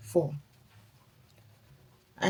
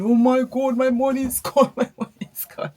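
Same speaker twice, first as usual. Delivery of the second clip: mock wail; 6 semitones higher, 7 dB louder than usual. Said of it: "I would have been going".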